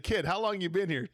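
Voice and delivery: put-on grizzled cowboy country accent. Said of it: "We're talking with an accent".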